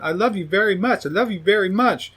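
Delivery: high, sing-song doll voice repeated; lightly voiced creepy doll; creepy toy voice. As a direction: play a creepy talking toy on loop. Living toys repeating love line.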